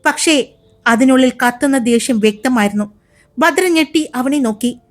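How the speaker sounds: brisk, expressive storyteller voice; story narration. A narrator's reading. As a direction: read it like an audio drama narrator. (കഥ പറയുന്ന ശൈലി)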